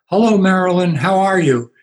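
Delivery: loud, high greeting called across a room; a breezy shouted hello; calling out. Retold or imitated. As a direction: yell it out cheerfully to someone far away. Pastor calls out across lobby.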